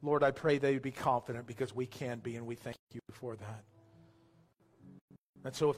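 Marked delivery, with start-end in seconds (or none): 0.0-3.6 measured prayer with long pauses, sinking at phrase ends; public prayer. Real, not acted. Pastor asking God to touch those without salvation, in earnest prayer.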